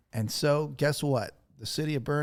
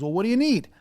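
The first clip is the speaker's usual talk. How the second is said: quoting Justin; 8 semitones higher, 6 dB louder, faster than usual. Retold or imitated. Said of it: "And he goes".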